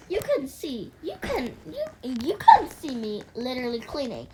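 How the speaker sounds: put-on exasperated teen pleading her case; indignant protest. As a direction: squeal it in mock outrage, stressing "can". Protesting to mom in skit.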